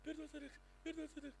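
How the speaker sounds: pleading. Retold or imitated. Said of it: "ela começou a gritar".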